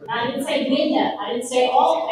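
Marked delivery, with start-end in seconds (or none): 0.7-1.2 "window" with a Southern ending, like "winda"; demonstrating a Southern "window"; Southern drawl. Shown as a demonstration. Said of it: "the Southern drawl". 1.7-2.1 "all" in a Southern drawl; demonstrating a Southern "all". Shown as a demonstration. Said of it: "the Southern drawl".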